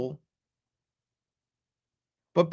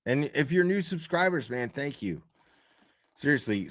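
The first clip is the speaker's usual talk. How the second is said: tipsy; 6 dB quieter than usual. Real, not acted. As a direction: speak like a few whiskeys in. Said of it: "I'm a little tipsy".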